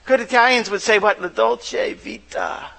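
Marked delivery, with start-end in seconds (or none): 1.2-2.7 slow, soft Italian-accented phrase. Shown as a demonstration. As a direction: savour it in a mock Italian accent. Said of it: "like, really bad Italian accent".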